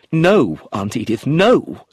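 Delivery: rising to a loud cry on the last no; a narrated man's alarmed exclamation; exclaiming. A narrator's reading. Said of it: "he exclaimed".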